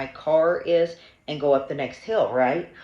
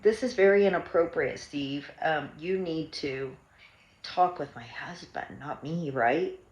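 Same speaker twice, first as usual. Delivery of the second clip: calm firm reply. Retold or imitated. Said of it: "And then I said".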